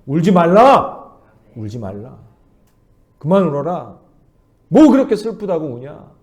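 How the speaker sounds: a tender but firm "stop crying"; Jesus speaking. Retold or imitated. Jesus speaking to the grieving listener, lightly voiced firmness. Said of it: "그렇게 말씀하시는 거예요".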